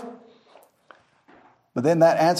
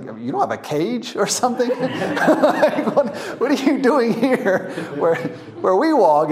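higher, giggling through the question; laughing disbelief; 3 semitones higher than usual. Retold or imitated. Visitor to a loose elephant, laughing. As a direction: laugh it out in mock amazement.

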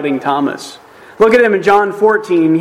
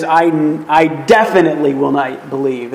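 "definitely" leaned on in a measured refusal; stress on definitely. Shown as a demonstration. Preacher rewording Thomas's doubt from the original, "definitely" stressed. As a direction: put the weight on "definitely". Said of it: "in the original, you could say".

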